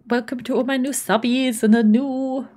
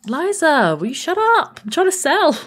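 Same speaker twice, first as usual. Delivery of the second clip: raised, higher mock scolding; mock annoyed; 5 semitones higher, 3 dB louder than usual. Streamer mock-scolds her sim Eliza for interrupting, raised voice. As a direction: tell her off, half-joking.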